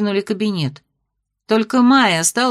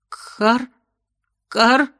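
croaky cough; 3 semitones higher than usual. A narrator's reading. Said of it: "Прокашлявшись".

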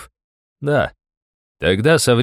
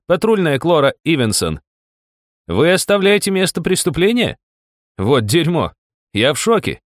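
public shaming; 12 semitones higher than usual. A narrator's reading. Loudly shaming guard, calling crowd.

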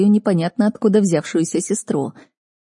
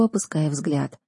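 ordinary delivery, nothing marked

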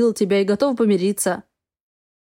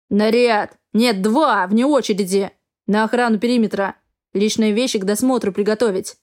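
shouting drill sergeant. Acted. Captain handing out duties.

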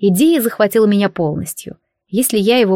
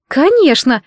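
a higher, miffed "of course"; offended retort; 6 semitones higher than usual. A narrator's reading. Charlotte offended by her friends' question, miffed. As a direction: sound a bit hurt that they asked. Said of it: "обиделась на нас подруга".

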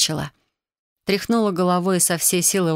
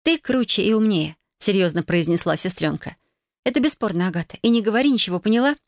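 younger sister voice; 2 semitones higher than usual. Acted. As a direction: insist it as the kid sister. Sister says it seriously.

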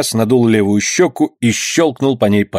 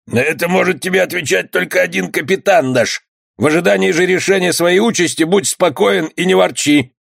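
bandit's reply; 8 semitones higher than usual. Acted. Bandit answers the skipper.

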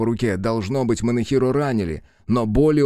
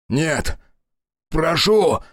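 pleading; 7 semitones higher, much slower than usual. Acted. Hero begs the dragon.

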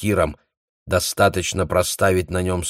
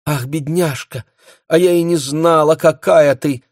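higher, louder, touched cry; moved exclamation; 9 semitones higher, 5 dB louder than usual. A narrator's reading. Esther crying out as she hugs Europe. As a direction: gush with sudden affection. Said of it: "вскричала Эстер".

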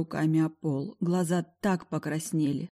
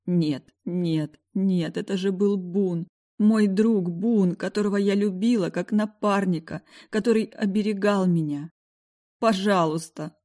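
pleading; 3 semitones higher than usual. Acted. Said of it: "молила я".

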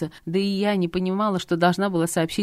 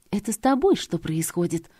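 through gritted teeth. Acted. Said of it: "процедила сквозь зубы".

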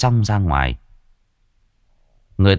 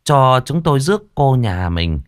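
higher, sweet and formal matchmaker's address; sweet thin matchmaker; 5 semitones higher than usual. Acted. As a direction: sweeten every honorific like a courting go-between. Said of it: "cất lên ngọt ngào thanh thanh".

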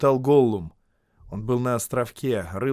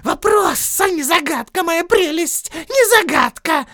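much higher, louder whining creature; Gollum voice; 9 dB louder than usual. Acted. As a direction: whine that it was unfair. Gollum correcting himself.

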